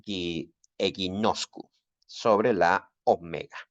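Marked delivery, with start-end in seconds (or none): 0.8-1.7 eginoscu with a plain Spanish stress on NOS; Spanish-style stress. Shown as a demonstration. Teacher shows students the correct accentuation, stress on NOS in eginoscu. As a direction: stress the penultimate syllable of eginoscu, egiNOScu. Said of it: "como si fuera un acento español".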